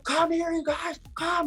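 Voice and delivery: imitating a girl summoning friends; mock girl calling out. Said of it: "she starts screaming at her friends".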